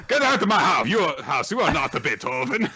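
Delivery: put-on Italian accent sliding towards French; wobbly mock accent. Throwing someone out of the house, wobbly mock Italian accent. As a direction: put on a slipping, comic European accent. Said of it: "Are you becoming French?".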